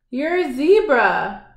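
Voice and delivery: read-aloud cry of surprise; mild excited cry. Acted. Billy finds out the pony is a zebra, mild cry. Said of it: "Billy cried".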